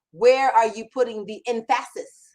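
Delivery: "emphasis" stressed on its middle syllable, em-FASS-is; misplaced stress. Shown as a demonstration. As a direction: jokingly hit the second syllable of "emphasis". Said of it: "emphasis on the right syllable".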